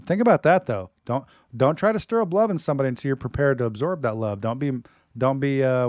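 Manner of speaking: ordinary talk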